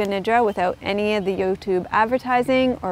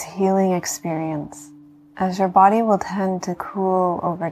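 guided meditation. Acted. Yoga teacher talking listeners into healing rest, calm meditation voice.

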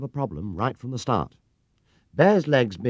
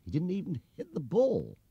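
grumbled; 10 semitones higher, 4 dB quieter than usual. A narrator's reading. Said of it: "he grumbled".

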